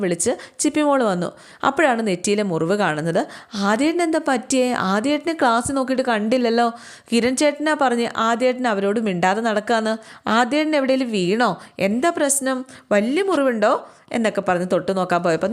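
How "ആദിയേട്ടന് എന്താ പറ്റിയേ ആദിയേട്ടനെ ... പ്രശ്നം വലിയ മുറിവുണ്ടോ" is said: lightly voiced young girl, higher; a hint of a worried little sister asking; worried little sister Chippi, a touch higher; little girl's voice. Little sister Chippi asks, concerned.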